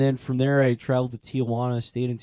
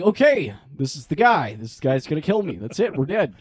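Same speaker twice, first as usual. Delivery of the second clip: mock panic; 2 semitones higher than usual. Panicked inner voice, higher, louder.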